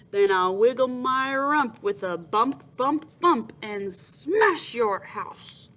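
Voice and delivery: boar threat. Acted. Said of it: "answered Big Bottomed Boar".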